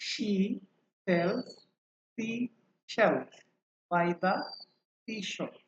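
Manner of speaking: very slow, a pause after each word; slow tongue twister. Shown as a demonstration. Teacher models the tongue twister for students, slowly. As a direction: spell it out word by word. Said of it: "আস্তে আস্তে ধীরে ধীরে বলবো".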